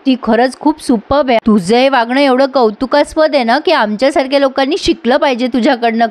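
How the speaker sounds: mock praise dripping with sarcasm; lightly voiced sarcastic wife; sarcastic taunt. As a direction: praise him sweetly, meaning the opposite. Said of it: "एवढा जबरदस्त टोमणा मारला".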